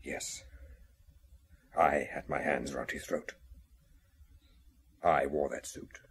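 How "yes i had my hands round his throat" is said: hushed whisper of a guilty man; whispered confession. Acted. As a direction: breathe the confession out, barely voiced. Confessing the killing.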